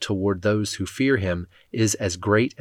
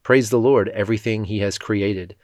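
scripture reading. Acted. Reader reads the psalm to the congregation, reverent and measured.

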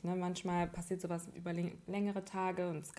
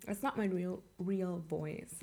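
extremely deep bass voice; 4 dB quieter than usual. Shown as a demonstration. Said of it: "Ich hab eigentlich voll die tiefe Stimme".

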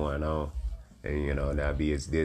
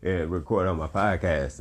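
teary; 3 semitones higher, 3 dB louder than usual. Real, not acted. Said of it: "I ain't gonna get teary, you know, emotional".

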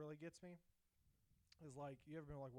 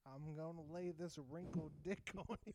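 grandpa voice; 4 semitones higher, 5 dB louder than usual. Acted. Acting as grandpa.

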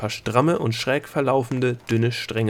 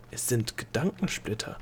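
much softer, distracted murmur; absent murmur; 10 dB quieter than usual. Delia recognises the thought splinters, absent-minded murmur. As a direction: say it half to yourself, lost in thought. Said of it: "murmelte Delia abwesend".

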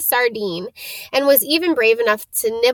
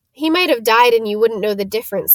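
disgusted. Acted. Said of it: "said Ron in disgust".

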